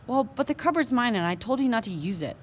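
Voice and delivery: indignant. Acted. Omri argues back.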